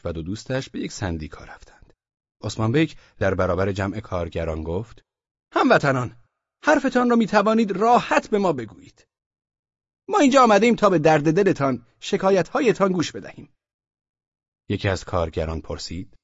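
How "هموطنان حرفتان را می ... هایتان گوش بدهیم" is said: high, loud, pompous official addressing a room; a self-important bureaucrat opening a meeting; Osman Bey's official voice. Acted. Osman Bey greets the merchants in a high, pompous official voice. Speech to workers.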